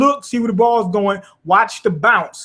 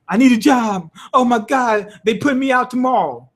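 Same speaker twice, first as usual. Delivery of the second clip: panicked; 5 semitones higher than usual. Retold or imitated. Same panic imitation repeated.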